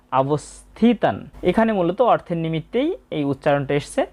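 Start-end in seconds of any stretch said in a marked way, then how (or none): 0.1-1.2 "অবস্থিতান" very slowly, "থি" held long; separate word from A. Shown as a demonstration. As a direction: begin "অবস্থিতান" on its own a and stretch it. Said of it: "অ দিয়ে আর একটা শব্দ".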